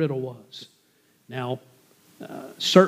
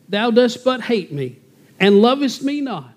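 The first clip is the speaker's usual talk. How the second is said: mock weeping; 7 semitones higher, 4 dB louder than usual. A narrator's reading. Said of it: "Samson's wife wept before him".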